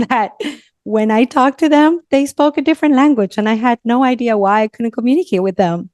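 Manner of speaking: tumbling out the memory with delight; excited. Real, not acted. Guest recalling running up to tourists as a child, excited.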